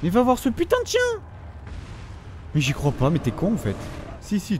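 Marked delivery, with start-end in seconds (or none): 0.0-1.0 high exasperated shout; exasperated yell. Real, not acted. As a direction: lose patience and bark the order. Yelling at AI companion. (crier d'exaspération au compagnon)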